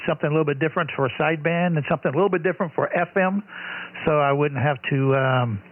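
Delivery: slightly off-frequency radio signal; mistuned ham radio. Real, not acted. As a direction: voice over a mistuned radio channel. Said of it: "you're a little off frequency".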